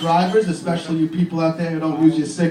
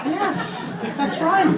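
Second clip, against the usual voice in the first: mock praise; 12 semitones higher, much slower than usual. Dad praising, very high.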